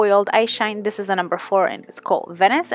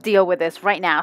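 tut-tut at her own inner corner, hushed; sassy mock scolding; 3 semitones lower than usual. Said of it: "and I'm like".

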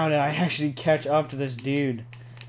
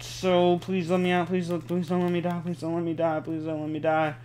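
anxious pleading; 3 semitones higher than usual. Real, not acted. Begging not to die in game.

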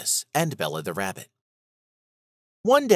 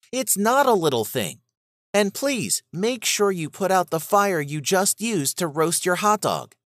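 put-on higher, earnest young rabbit voice; Bella the rabbit; 7 semitones higher than usual. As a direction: gently warn a friend as the rabbit.

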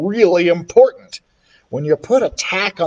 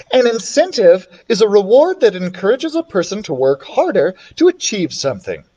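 mildly self-satisfied recital; proud announcement; 4 semitones higher than usual. Acted. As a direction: recite it like a know-it-all pupil. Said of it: "Andrea announced, all proud of herself".

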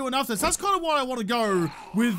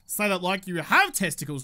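mock manly voice; 3 semitones lower than usual.

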